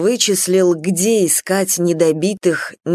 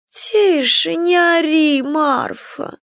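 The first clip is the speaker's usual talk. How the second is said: annoyed; 7 semitones higher, much slower than usual. Acted. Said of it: "поморщилась".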